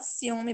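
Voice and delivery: "ciúme" slowly as ci-U-me; calm, separated. Shown as a demonstration. Teacher says how it is spoken, "ciúme" slowly with vowels apart. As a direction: give the U in "ciúme" its own slow syllable. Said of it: "bem calmamente".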